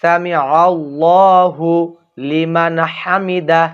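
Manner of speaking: সামি আল্লাহু লিমান হামিদা slow, আল্লাহু stretched, no break before লিমান; correct recitation. Shown as a demonstration. Teacher models the correct prayer phrase for viewers, slow recitation. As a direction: intone it slowly with a held আল্লাহু. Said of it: "আবারও বলতেছি, সকলে বলবেন".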